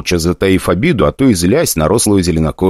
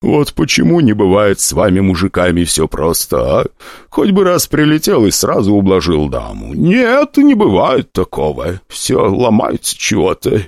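crone hostess. Acted. Hostess sizing up the prince, a lightly voiced crone.

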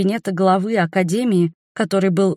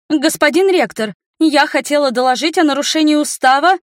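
higher, louder aggrieved report; march in and tell on her; wronged student complaining to the rector; offended tattler; 8 semitones higher, 4 dB louder than usual. A narrator's reading.

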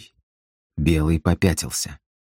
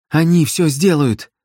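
panicked cry; 8 semitones higher, 3 dB louder than usual. Acted. Galka panics by the lake.

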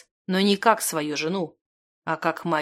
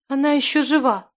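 high, urgent wail; 7 semitones higher, 3 dB louder than usual. A narrator's reading. Zimana weeps over Stekhana's body, wailing. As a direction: cry it out high, in tears. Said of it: "голосила Зимана".

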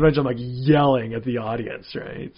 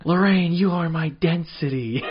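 slow, slightly higher nerdy line; George McFly; 4 semitones higher, slower than usual. Retold or imitated. Lightly voiced George McFly quote among comedians. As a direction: stretch it out like a timid nerd. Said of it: "we'll do George McFly".

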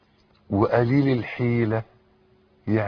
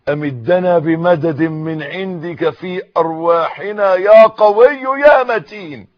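louder, rising supplication; fervent prayer; 4 semitones higher, 10 dB louder than usual. Real, not acted. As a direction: build the prayer from call to loud cry. Preacher leads a prayer. (دعاء متصاعد بحرارة)

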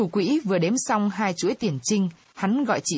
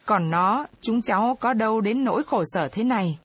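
mild teary pleading, pitched up; half speaking, half crying; 3 semitones higher than usual. Acted. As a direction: beg with a lump in the throat, lightly acted. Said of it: "Chị Dậu dở nói dở khóc".

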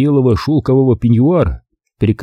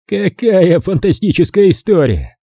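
booming; 8 semitones higher than usual. A narrator's reading. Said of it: "привычно загремел он".

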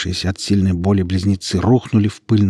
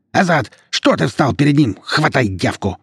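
angry shout; 7 semitones higher than usual. A narrator's reading. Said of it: "снова крикнул".

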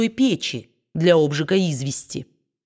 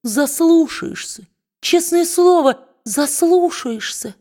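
much higher, slow sugary praise; squeaky slow fawning voice; gushing toady; 11 semitones higher, 3 dB louder, slower than usual. A narrator's reading. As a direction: swoon over the boss. Brass flatters Quilp.

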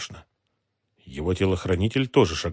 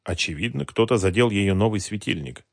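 ordinary delivery

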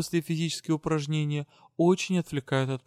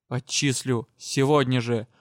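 a rasped, hoarse outburst; hoarse threat; 4 dB louder, slower than usual. Acted. Magister suddenly rasps a threat at the student, hoarse. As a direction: croak out the expulsion threat. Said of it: "прохрипел вдруг магистр".

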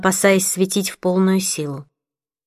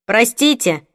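apologetic; 3 semitones higher, slower than usual. Acted. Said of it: "раздался виноватый голос диспетчера".

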